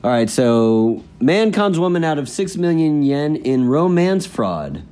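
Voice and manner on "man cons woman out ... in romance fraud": measured, emphatic headline reading; news read. Acted. Co-host reading the day's fraud story, news read.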